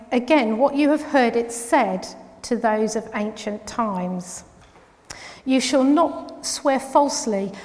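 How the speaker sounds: measured, emphatic Bible reading; scripture reading. Acted. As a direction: read the passage aloud with deliberate weight on key words. Reads the scripture passage aloud.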